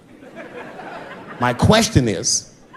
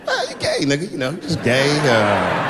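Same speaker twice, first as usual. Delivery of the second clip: mumbling. Retold or imitated. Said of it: "I started mumbling again".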